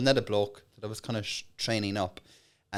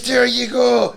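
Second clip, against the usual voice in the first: high, loud triumphant call; loud salesman shout; 11 semitones higher, 9 dB louder, much slower than usual. Acted. Salesman closing the sale with the gang leader, loud triumphant. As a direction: crow it like you've won. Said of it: "aggressive pitch".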